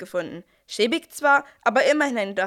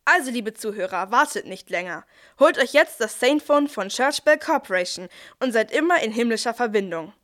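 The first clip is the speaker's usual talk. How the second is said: pushy call to buy now; ad closing. Acted. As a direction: close the ad with a hard sell. (drängender Werbeschluss)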